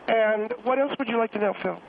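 mildly sarcastic, understated question. Real, not acted. Irked guest challenging the host Phil, mildly sarcastic. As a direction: ask with a dry touch of sarcasm. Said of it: "I don't understand the sarcasm".

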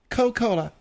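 "Coca-Cola" said as Co-Cola, three syllables; dropped syllable. Shown as a demonstration. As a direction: conclude with "Coca-Cola" minus the "ca". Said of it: "See, Phil?".

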